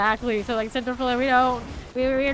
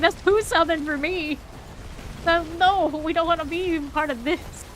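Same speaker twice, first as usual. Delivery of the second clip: voicing relatives' refusal, higher-pitched; mock protest; 7 semitones higher, 4 dB louder than usual. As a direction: play their emphatic, exclaimed rejection. Relatives rejecting life up north.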